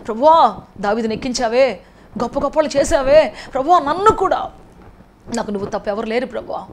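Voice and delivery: a fervent plea that ends in a humble drop; loud pleading prayer. Retold or imitated. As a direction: beg the Lord with rising fervour. David's imagined prayer to God.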